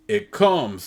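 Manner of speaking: high ecstatic cry. Acted. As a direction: cry it out in rapture. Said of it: "they cry".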